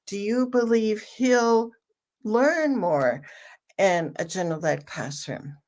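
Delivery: he'll held, then a pause before learn; stress on HE'LL. Shown as a demonstration. We're talking about this one person, stress on he'll. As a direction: set he'll apart from the rest. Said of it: "put the emphasis on the word he'll".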